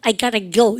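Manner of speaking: I gotta go said I gara go, t flapped to r; American gotta, gara. Shown as a demonstration. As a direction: run gotta together as gara. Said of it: "뭐만 들립니까".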